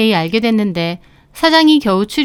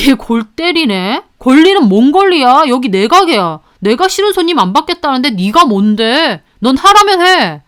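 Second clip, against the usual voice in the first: angry boss; 2 semitones higher than usual. Acted. Boss scolding the part-timer, angry. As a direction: sneer then bark the order.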